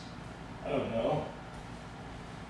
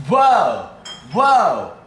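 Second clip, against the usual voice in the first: high, loud repeated whoa; be blown away each time; amazed whoa; 6 semitones higher, 9 dB louder, much slower than usual. Real, not acted. Reacting to his friend's trick, loud amazed whoa.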